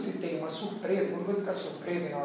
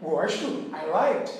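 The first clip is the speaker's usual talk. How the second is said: slow wrong answer; much slower than usual. Shown as a demonstration. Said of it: "ué".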